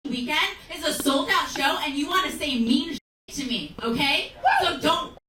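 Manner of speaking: loud scolding; angry. Real, not acted. Comedian scolds heckler on stage.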